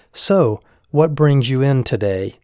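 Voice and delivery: lightly voiced breezy doctor, easygoing; casual chit-chat. Young doctor greeting a worried patient, casual and breezy. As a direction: toss it off like small talk over tea. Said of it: "as if he were chatting over a cup of tea".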